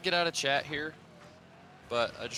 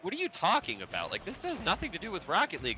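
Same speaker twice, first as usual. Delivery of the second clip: higher-pitched retold confusion; mock-baffled questioning; puzzled disbelief; 5 semitones higher than usual. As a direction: replay your baffled reaction, pitch lifted. Retelling own puzzled first reaction.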